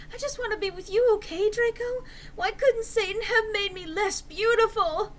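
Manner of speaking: high, loud, whiny anger; shouting angrily. Acted. Enderby shouting at Draco, high and whiny. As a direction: complain loudly, high and put-upon. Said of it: "I shouted angrily".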